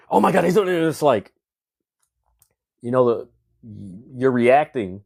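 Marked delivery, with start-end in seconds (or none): 0.1-0.8 high, overexcited, overdone wrestling-commentator cry. Mocking wrestling commentary: imitating overdone commentator inflection. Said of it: "Overkill on the inflection".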